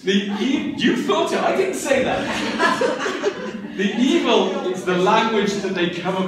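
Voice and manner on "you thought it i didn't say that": laughing denial. Real, not acted. Teasing audience about the witch.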